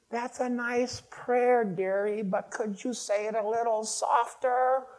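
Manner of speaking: put-on high, slow, sweetly chiding old lady; neighbor lady voice. Neighbor below asks the praying man to pipe down, in a high slow sweet voice. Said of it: "a voice saying".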